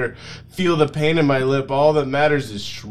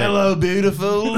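raised, odd cartoon voice; failed ogre impression; Shrek impression, missed; 7 semitones higher than usual. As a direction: aim for Shrek, miss it. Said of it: "That's not really".

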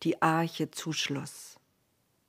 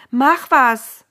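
urgent demand; 6 semitones higher, 10 dB louder than usual. Acted. Wife demanding action from Noah.

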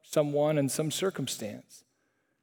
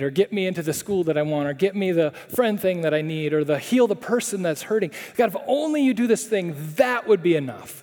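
bargaining plea. Pretend. If-then believer bargaining with God.

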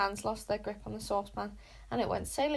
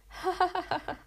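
higher jeering ha ha; group jeering laugh; mocking laughter; 9 semitones higher than usual. A narrator's reading. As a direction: laugh at him as a crowd. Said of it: "laughed Luther's followers".

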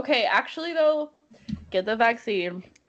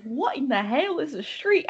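lightly imitated Southern friend; attempted Southern accent; 5 semitones higher than usual. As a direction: try a Southern accent and not quite get there. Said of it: "I can't even do a southern accent".

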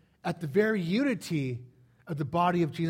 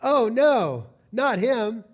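dismayed woman; 3 semitones higher, 6 dB louder, much slower than usual. Retold or imitated. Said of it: "a woman in the audience says".

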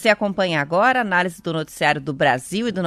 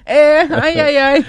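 laughing; 7 semitones higher, 9 dB louder, slower than usual. Real, not acted. Laughing at the hiccups.

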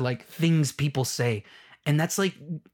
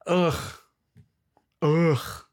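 exasperated groan; 3 semitones higher than usual. Real, not acted. Exasperated after ranting.

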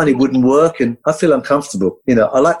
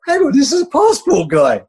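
amazed aside; 14 semitones higher than usual. Retold or imitated. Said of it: "And I'm like".

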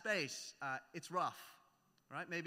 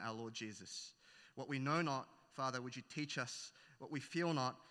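prayer; 2 semitones lower than usual. Acted. Pastor praying over the congregation, hushed and reverent.

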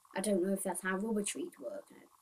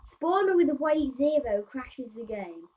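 louder, higher read-out; reading aloud; 5 semitones higher, 10 dB louder than usual. Acted. Player reading a bug fix to viewers, reading aloud. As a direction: read the bug out loud and pitched up.

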